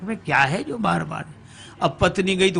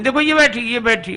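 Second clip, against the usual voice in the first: excited pointing; 6 semitones higher, 3 dB louder than usual. Acted. Bride points at mirror rival.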